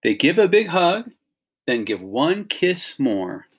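put-on lively storybook read-aloud to kids; animated picture-book reading; reading to children. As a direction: read it like bedtime story time for a class.

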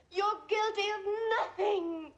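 tearful laugh; laughing through tears. Acted. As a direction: laugh and cry at once.

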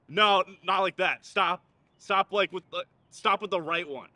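loud frantic corrections; nagging backseat driver. Acted. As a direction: bark out fixes. Yelling corrections at rider.

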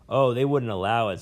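a lightly voiced old scholar, rambling and bitter; a hint of a cranky old professor holding forth; jailed old professor. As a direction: play the disgraced academic nursing his grudges. Professor answers decisively.

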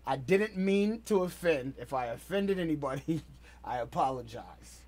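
slow it down so it lands clearly; slow sincere apology. Real, not acted. Apologising to the viewers, slow and sincere. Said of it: "I want them to hear it clearly".

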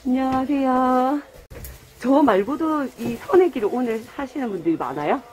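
muffled behind cloth mask; talking through a face mask. Real, not acted. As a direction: voice through covered mouth. Seen 1: cloth mask covers mouth and nose throughout, absent in R frames.

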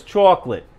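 Chocolate said as Jersey "CHAW-klit"; Jersey pronunciation. Shown as a demonstration. Listing words he still says the Jersey way, Chocolate as "CHAW-klit". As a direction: round the first vowel of Chocolate into "aw". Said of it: "but I still say some words".

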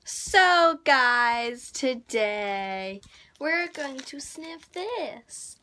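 hammed-up American YouTuber voice; loud American vlogger opener; fake American accent. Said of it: "put on a fake American accent".

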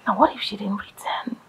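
crying shout. Acted. Sobbing wife shouts her fear at her husband. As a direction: wail your doubt at him.

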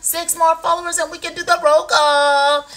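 high, loud rallying call; excited announcement. Real, not acted. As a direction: call it out, stretching the last word.

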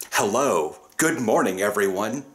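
mock the cheery morning greeter; imitating a chipper host. Mocking the meeting host greeting everyone, lightly chirpy. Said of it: "and then you get this".

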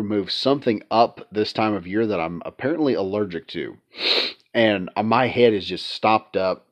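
congested, blocked-up nose; stuffy nose. Real, not acted. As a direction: talk through a stuffy head cold. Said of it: "if I sound a little stuffy".

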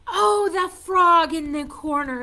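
loud, bright discovery; excited. Real, not acted. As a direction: announce it with delight.

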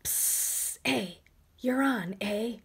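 unvoiced psst to a friend; whispered psst from the wings; stage whisper. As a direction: hiss a quick cue. Letter whispering to A offstage.

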